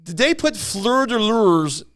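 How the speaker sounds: a mildly voiced polite questioner; lightly put-on courteous asker; polite retold question. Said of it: "Al asked this old man".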